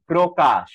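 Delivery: প্রকাশ slowly, "pro-kash"; model pronunciation. Shown as a demonstration. Teacher gives students an example word, slow model pronunciation. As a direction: draw out প্রকাশ with a full pro-. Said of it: "তাহলে সেটা হয়ে যায় প্র".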